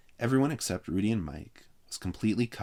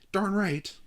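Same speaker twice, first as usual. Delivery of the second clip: grinning; 13 semitones higher, 4 dB louder than usual. A narrator's reading. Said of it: "grinned Frank".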